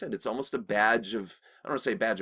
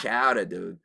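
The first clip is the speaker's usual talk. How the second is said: "chowdah" with the R dropped; lazy Boston "chowdah, dude"; playful Boston accent; mock Boston accent; 3 dB louder than usual. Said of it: "mock Massachusetts accent".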